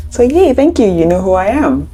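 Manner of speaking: high-pitched mock delight; playful cheer. Teacher reacting to the friend's "I know", playfully pleased.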